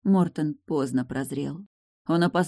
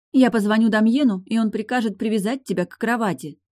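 loud, higher scolding threat; angry threat; 7 semitones higher, 6 dB louder than usual. Acted. Sister threatening her brother who won't obey, loud. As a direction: threaten him, raised voice.

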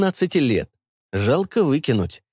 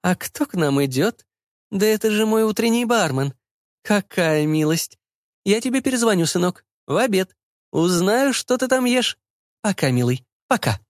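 flirty mother turned languid, pitched up; 9 semitones higher than usual. A narrator's reading. Mother spots her bartender while on the call, languid. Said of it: "Голос женщины изменился, становясь томным".

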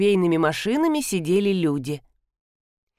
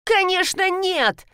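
indignant; 11 semitones higher, slower than usual. A narrator's reading. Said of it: "топнула Галина".

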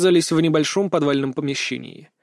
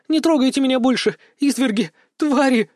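tearful cry; 9 semitones higher than usual. A narrator's reading. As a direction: cry it out in terror. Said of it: "заплакала пленница".

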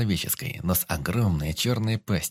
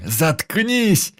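much higher, loud snap of fury; enraged shout; 11 semitones higher, 6 dB louder than usual. Acted. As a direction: explode at him. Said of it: "взбесился я".

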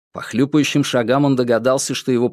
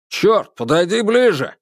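angry yell; 8 semitones higher than usual. Acted. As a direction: bellow it at a partner. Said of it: "заорал тот".

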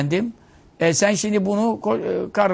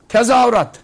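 mock cheer; 4 semitones higher, 9 dB louder than usual. Laz fans cheering at match.

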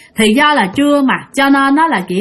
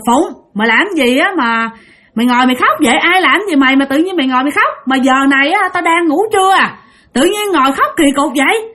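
higher, irritated scold at the crying sister-in-law; annoyed scolding yell; 5 semitones higher than usual. Retold or imitated. Woken sister-in-law scolds crying Phụng, annoyed raised voice. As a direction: snap at her for waking you up. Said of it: "mới la lên".

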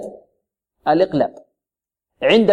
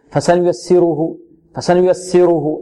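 quicker student-error recitation; rushed vowels; slower than usual. Shown as a demonstration. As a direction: recite فسنيسره with the short vowels hurried through. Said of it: "البعض ربما يسرع فيها". (إسراع خاطئ في الحركات)

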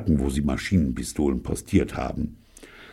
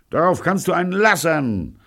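loud, much higher shout back; much higher yelled retort; 4 dB louder than usual. A narrator's reading. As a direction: yell it across the street. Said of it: "schrie Pirolo zurück".

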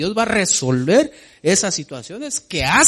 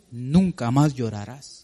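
slow tender promise; 3 semitones lower than usual. Shown as a demonstration. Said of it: "como dice aquí".

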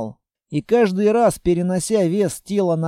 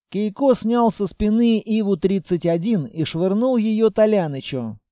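usual speaking voice

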